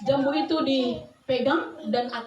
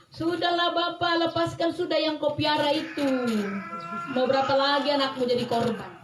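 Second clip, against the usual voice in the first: villagers' plea; 2 semitones higher than usual. Retold or imitated. Villagers plead with the father.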